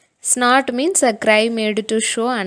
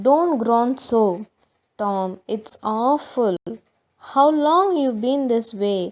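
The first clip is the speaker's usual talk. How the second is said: worried; 2 semitones higher, 4 dB louder, much slower than usual. Acted. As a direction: beg him to stop, worried. Sid alarmed at groaning.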